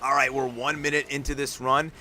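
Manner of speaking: energetic sports commentary, rolling fast; live play-by-play. Acted. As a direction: call the run as it happens, building hype. Live monster truck play-by-play.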